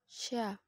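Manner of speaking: ucapkan "Sya" dengan nafas menyebar. Shown as a demonstration. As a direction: desis syin yang mengalir lebar. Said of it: "Perhatikan nafas menyebar sya". (syin dengan nafas menyebar)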